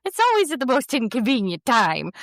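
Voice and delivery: high, put-on Midwestern mom; Midwestern mom accent. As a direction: complain like a folksy Midwestern mom. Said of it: "it will sound like Midwestern mom".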